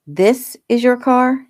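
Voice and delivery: high, slow, disbelieving question; surprised. Acted. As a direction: ask it in amazed disbelief. Chaz sees her red Corvette.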